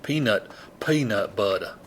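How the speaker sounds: "peanut butter" ending in "uh"; dropped R. Shown as a demonstration. Showing hometown speech, "butter" with no R. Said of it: "There was no R at the end of butter".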